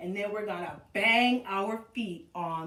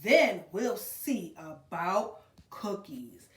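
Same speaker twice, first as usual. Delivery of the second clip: calm mother; 3 semitones lower, 3 dB louder, slower than usual. Acted. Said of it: "said her mother".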